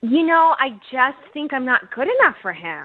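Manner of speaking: falsely regretful sarcasm; sarcastic. Real, not acted. Woman declining a second date on the radio, sarcastic. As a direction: turn them down with mock humility. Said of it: "I get you're being sarcastic".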